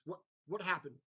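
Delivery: troubled questioner. Acted. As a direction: stumble over the words, mildly agitated and rising. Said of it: "turns and approaches you, goes".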